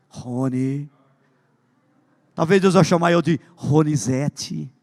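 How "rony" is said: Rony said lower and soft, tender and unhurried; voice of God. Shown as a demonstration. Preacher showing how God would call his name, soft and low. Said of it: "Como se fosse a voz de Deus".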